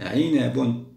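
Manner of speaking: normal talking voice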